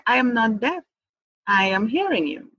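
composed, even, measured reply; monk-like calm. Retold or imitated. Wife calmly answering her angry husband, composed and unreactive. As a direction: answer evenly, like an unruffled monk. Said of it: "I'm just calmly say".

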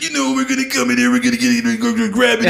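fast, high, shouting promo; Macho Man impression. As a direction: growl out a wild wrestling promo. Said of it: "He's like".

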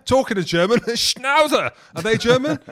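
high, loud words through laughter; cracking up over the German dog; laughing. Real, not acted. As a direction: crack up mid-sentence. Laughing while naming the breed.

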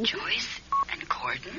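slow, breathy ghostly whisper; eerie whisper. Acted. Sheila's ghost whispering suspiciously about Joyce and Gordon. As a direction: hiss the two names as a disembodied voice.

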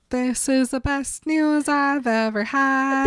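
high, slow mock gush; overjoyed, imitated. Bella thrilled that the baby is happy, mock gushing. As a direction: draw it out in lightly acted bliss.

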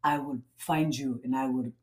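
half-hearted Irish tough-guy impression; Irish Liam Neeson. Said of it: "an Irish Liam Neeson".

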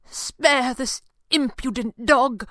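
pleading captive asks his captor for mercy; pleading for his life. Acted. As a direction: beg for mercy, drawn out. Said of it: "pleaded as if for his life".

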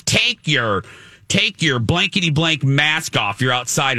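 retold yell, punched word by word; yelled demand. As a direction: imitate a drunk heckler yelling an order. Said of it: "And she yelled at me".

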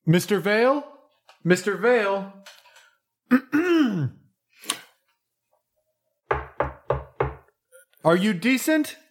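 high timid butler voice; a timid spooky servant calling at the door; creepy butler. Acted. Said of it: "A spooky butler timidly".

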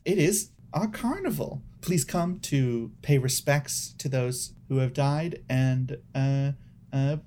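practiced customer-service greeting. Acted. Crocodile welcomes a visitor to the carnival, customer service voice. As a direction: greet them with your best service voice. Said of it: "putting on their best customer service voice".

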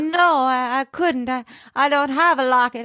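high, hammed-up stammering denial; flustered denying woman. Elizabeth denying, acted.

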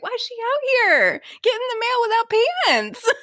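very high-pitched comic disbelief; retold incredulity. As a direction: imitate an appalled onlooker, pitch shooting up. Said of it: "looking at me like I'm crazy".

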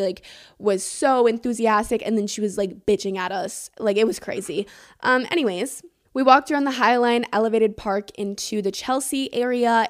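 usual speaking voice

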